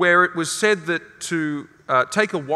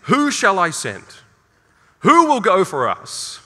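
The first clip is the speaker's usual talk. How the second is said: slow, louder call from on high, pitched up; God asks who will go, in a slow raised call; 6 semitones higher, 6 dB louder, slower than usual. Acted. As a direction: boom it out slowly like God summoning a messenger. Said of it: "God says".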